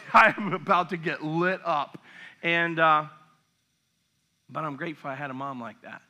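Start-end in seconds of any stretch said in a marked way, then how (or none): 0.1-2.0 chuckling through it; amused laughing aside. Real, not acted. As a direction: laugh at the memory. Laughing at his past.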